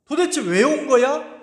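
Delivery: retelling the generals' outraged challenge; indignant demand. Retold or imitated. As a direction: press the king in disbelief. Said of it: "이렇게 따진 거예요".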